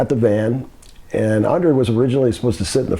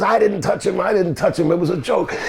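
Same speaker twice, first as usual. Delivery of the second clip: lightly acted higher-pitched denial; imitated defensive protest; protesting innocence; 6 semitones higher than usual. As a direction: mildly mimic a man defending himself. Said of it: "He goes".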